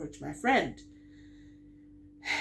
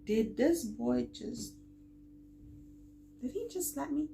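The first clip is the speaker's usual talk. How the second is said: stunned disbelief; 7 semitones higher, 5 dB quieter than usual. Retold or imitated. Girl reacting to being slapped, stunned high disbelief.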